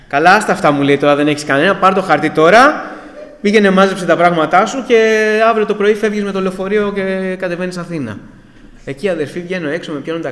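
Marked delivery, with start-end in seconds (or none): 0.1-0.7 louder, dismissive order voice; brusque commander. Retold or imitated. Commander brushes off protest, gives order. 1.0-8.2 loud, higher-pitched retold order; commanding officer. Commander orders him to pack and leave.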